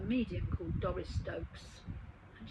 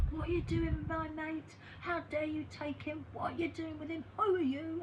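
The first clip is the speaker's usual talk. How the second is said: raised, higher voice of an angry mate demanding answers; retold angry confrontation; 8 semitones higher than usual. Dead man's friend confronting the healer, higher angry challenge.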